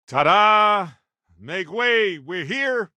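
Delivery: big, loud, high showman reveal; triumphant ta-da. Acted. Unveiling a surprise to the captain, loud and high. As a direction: present it like a magic trick.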